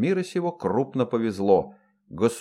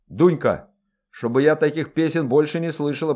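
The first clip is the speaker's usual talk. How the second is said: louder, stern scolding; sharp scold; 4 semitones higher, 3 dB louder than usual. Acted. Mistress scolds dwarf over the forbidden song, stern. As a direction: snap at the servant. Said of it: "прикрикнула хозяйка".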